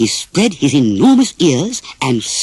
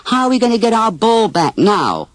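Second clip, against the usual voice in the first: put-on upset boy; 8 semitones higher than usual. A narrator's reading. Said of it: "grumbled the others".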